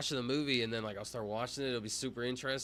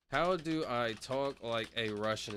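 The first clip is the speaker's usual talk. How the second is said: slow, careful attempt at a Russian accent; slower than usual. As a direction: try on a Russian accent, word by word. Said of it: "talk like you're from Russia".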